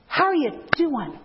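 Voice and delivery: how are you doing with a warm punchy lift; Clinton-style greeting. Shown as a demonstration. Speaker demonstrating Clinton's greeting to greeters, punchy friendly. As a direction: give the greeting a little oomph. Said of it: "just that little oomph".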